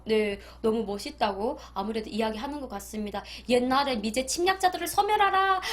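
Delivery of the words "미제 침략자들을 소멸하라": high, loud rally-style chant of the slogan; propaganda slogan shout. Retold or imitated. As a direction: bellow it like a North Korean rally. Old North Korean propaganda slogan.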